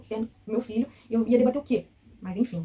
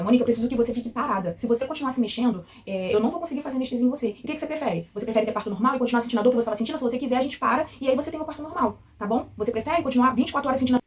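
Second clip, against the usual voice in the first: mock impatient nurse, louder; 4 semitones higher, 5 dB louder than usual. Patient imitating the nurse pressing her to keep still, raised and curt. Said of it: "ela falou assim".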